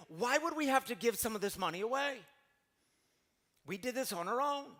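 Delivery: put-on a child insisting she earned it; protesting little girl. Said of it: "little Shiloh speaks up".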